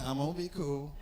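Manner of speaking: low and soft, holding rage back; quietly talking himself down; forced calm. Retold or imitated. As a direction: tell yourself to stay cool through your teeth. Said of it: "You go over and say".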